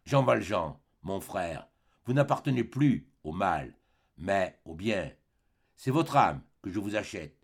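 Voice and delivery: grave et posé, sans élever la voix; solennel. Acted. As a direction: scelle le rachat de son âme. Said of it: "avec une sorte de solennité". (l'évêque bénit Jean Valjean, solennel)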